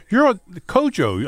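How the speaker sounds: high, mock-excited blurt; imitated fan recognition. Stranger guessing which show the man is on, mock-excited. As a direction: land on the name like a stranger who just placed it. Retold strangers hesitantly placing the name.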